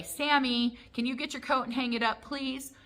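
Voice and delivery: put-on parent asking a child nicely. Parent asks little boy to hang up the coat, sweet request.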